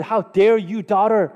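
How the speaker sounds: mock-indignant dad scolding, high-pitched; offended outburst. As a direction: play an outraged father telling off his daughter. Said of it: "so offended".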